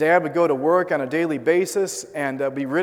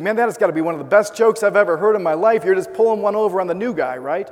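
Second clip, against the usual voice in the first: higher and louder, a hearty retold chuckle in the voice; mock jovial relief, higher and louder; jovial laughing quote; 4 semitones higher, 5 dB louder than usual. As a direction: play the guy thinking it's all a joke. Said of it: "He started laughing".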